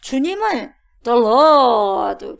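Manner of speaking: usual speaking voice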